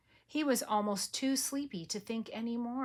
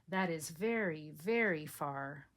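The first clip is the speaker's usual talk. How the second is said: gentle father; 3 semitones lower than usual. Acted. Father soothing sleepy child.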